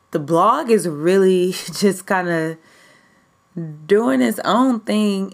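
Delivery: chuckling with excitement; giddy laugh. Real, not acted. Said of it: "I'm, like, super excited. I'm all, like, giddy".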